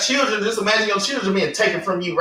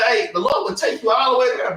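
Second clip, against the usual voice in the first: raised voice calling out the Lord; preaching shout; 3 semitones higher than usual. Real, not acted. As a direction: drive it home with a shout. Preaching at full force.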